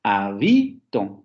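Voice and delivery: «Habito» muy lento, alargando BI: ha-BIII-to; acento exagerado en BI. Shown as a demonstration. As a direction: demuestra despacio el golpe en la BI de «Habito». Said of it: "con el acento en bi". («Habito» estirado, con BI bien marcada)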